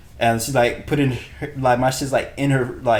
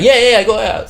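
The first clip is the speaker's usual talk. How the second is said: put-on eager girlfriend; 9 semitones higher, 4 dB louder than usual. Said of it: "And she's like".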